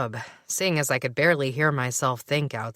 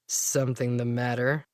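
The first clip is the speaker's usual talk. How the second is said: cool voice; 3 semitones lower than usual. Acted. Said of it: "a familiar, cool voice asked".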